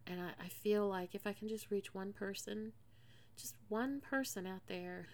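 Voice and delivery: fighting back tears while speaking; voice catching with grief. Real, not acted. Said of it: "sorry, I'm getting emotional".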